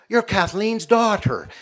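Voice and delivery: high, loud, drawn-out cry of recognition; delighted recognition. Retold or imitated. Old Uncle Jack recognizes Maureen on the road, loud and delighted. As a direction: act out an old uncle's joyful discovery.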